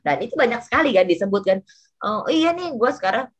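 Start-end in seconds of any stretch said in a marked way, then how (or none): 2.0-3.3 high start, then rushing out ashamed; bright hello, then mumble it off fast; imitating a friend who rushes the words out, embarrassed; mock sheepish housewife. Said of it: "intonasi suaranya langsung pelan".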